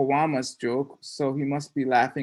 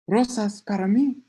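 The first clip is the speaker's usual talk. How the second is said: sheepish reveal; 7 semitones higher than usual. Acted. Boyfriend reveals the roses.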